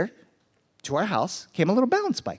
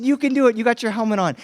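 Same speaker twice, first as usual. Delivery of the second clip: put-on high, upbeat mom cheering on her kid; encouraging mom; 5 semitones higher, faster than usual. Wife telling son he is ready for the hill, encouraging. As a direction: imitate a mom's eager pep talk. Wife urges child on in story.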